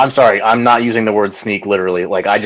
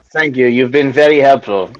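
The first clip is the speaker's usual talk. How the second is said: put-on French accent.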